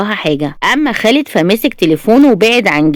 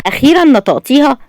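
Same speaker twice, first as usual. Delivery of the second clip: higher, gleeful triumph; triumphant; 6 semitones higher than usual. A narrator's reading. Mother-in-law triumphant that the bride finally admitted it. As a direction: crow it happily. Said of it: "وتقول بانتصار وسعادة".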